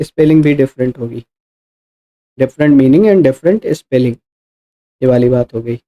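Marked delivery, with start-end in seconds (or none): 2.4-4.1 very slow, each word spaced out for students; slow dictation. Shown as a demonstration. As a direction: spell out the key phrase slowly for notes. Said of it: "slow dictation of key phrase". (धीमे-धीमे, हर शब्द अलग करके)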